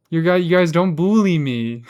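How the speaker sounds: mocking Midwestern "bully". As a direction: tease with a puli for "bully". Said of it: "make fun of him for saying".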